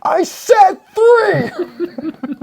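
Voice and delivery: high laughing shout at the toy; mock shout. Yelling back at the toy communicator, laughing mock shout. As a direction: yell it through laughter, pretending to be annoyed.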